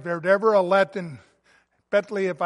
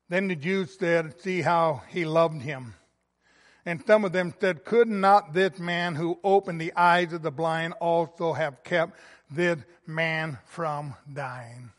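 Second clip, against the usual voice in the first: scripture reading. Acted. Pastor reads the Gospel passage to the church, hushed. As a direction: read the passage gently and reverently.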